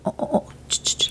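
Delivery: mock hushed oohs and clicks; imitated kids' reaction. Teacher imitating her pupils' reaction to her Spanish, mock hushed noises. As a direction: imitate kids reacting in unvoiced little noises. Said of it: "my kids would go".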